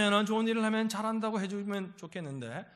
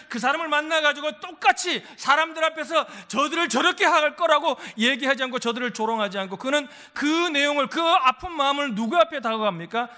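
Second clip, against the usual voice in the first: loud, raised preacher's voice; forceful sermon delivery, pitched up; impassioned preaching; 6 semitones higher, 8 dB louder than usual. Real, not acted. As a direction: drive the point home to the congregation.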